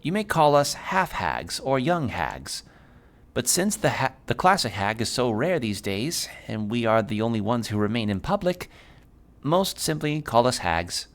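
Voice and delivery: hag character. Acted.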